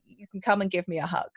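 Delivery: gentle, no-pressure invitation; mildly tender big-sister reassurance; offer of comfort. Acted. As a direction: offer the hug kindly, leaving it open. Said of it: "in an offer of comfort".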